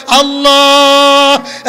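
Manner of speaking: long held chanted call; crying out. Retold or imitated. Adam cries upward to God, crying out. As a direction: hold the name out in a cry. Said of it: "উপরে চিৎকার দিয়ে বলে".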